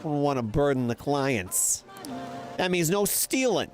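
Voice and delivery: lightly voiced New York Italian trader; a hint of a shady New York Italian dealer's pitch; New York Italian accent. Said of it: "Like, New York Italian accent".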